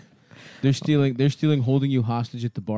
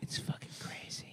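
whispering; 20 dB quieter than usual. Pretend. Gossip whisper bit.

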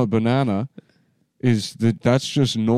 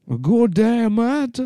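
put-on high, laughing Aussie accent; Australian African accent; 11 semitones higher, slower than usual. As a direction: crack up mid-accent. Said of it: "Australian African".

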